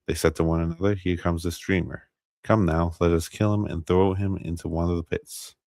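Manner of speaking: measured Bible narration, lightly animated dialogue; scripture reading aloud. A narrator's reading. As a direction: read the passage out evenly and clearly. Reads Scripture aloud on stream.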